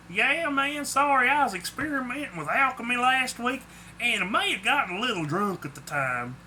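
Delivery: high-pitched, sheepish admission. A narrator's reading. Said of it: "Clark admitted sheepishly".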